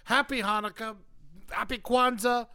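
loud cheery host greeting; festive show intro. Acted. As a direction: welcome everyone, big and cheerful.

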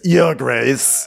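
mock-angry parting shot. Otto saying goodbye before walking off, angry. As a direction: put curt anger into the title. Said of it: "like, an angry".

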